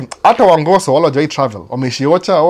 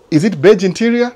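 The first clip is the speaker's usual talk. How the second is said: mock eager question; 7 semitones higher than usual. Asking salesman about cars.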